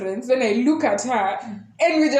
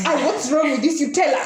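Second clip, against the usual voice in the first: friends' worried plea through laughter; half-laughing, pleading to know what's wrong; laughing mock plea; 3 semitones higher than usual. Friends holding her back, pleading through laughter.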